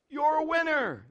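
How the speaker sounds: high, lighter repeat of a holler; echo calling back. Acted. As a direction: imitate a distant echo. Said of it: "the voice calls back".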